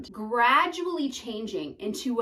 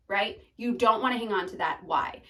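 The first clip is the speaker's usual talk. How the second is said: usual speaking voice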